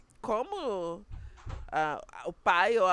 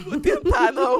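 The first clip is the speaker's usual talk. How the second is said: words squeezed out through laughter; laughing; 8 semitones higher, 9 dB louder than usual. Real, not acted. Two friends laughing as she vows not to project, loud and high. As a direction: laugh while promising. Both laughing at her resolution.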